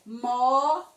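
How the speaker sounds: Moeda as MOO, E, DA with a loud first beat; slow Moeda, mo... e... da; split into syllables. Shown as a demonstration. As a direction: break Moeda into three separate syllables. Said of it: "são três sílabas".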